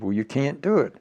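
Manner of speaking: high, loud firm command; stern order. Retold or imitated. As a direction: lay down the law. Retold heated argument with colonel.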